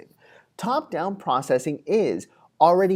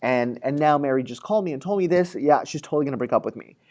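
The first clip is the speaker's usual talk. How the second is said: freaking out. Retold or imitated. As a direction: play Billy spiralling into anxious certainty, fast. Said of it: "So now Billy's freaking out".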